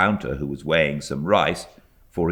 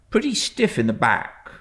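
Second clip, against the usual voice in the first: higher, amused driver's voice; the driver musing, a little comic; fly driver voice; 6 semitones higher than usual. A narrator's reading. Driver describing the aunt to the boy, lightly comic.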